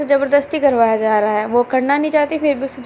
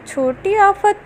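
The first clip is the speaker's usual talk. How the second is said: छोटी आफत repeated higher, amused; amused echo; 5 semitones higher, much slower than usual. Acted. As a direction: echo छोटी आफत back with a raised, teasing lilt. Jao repeats nickname, amused. ("छोटी आफत" ऊँची, मज़ाकिया आवाज़ में)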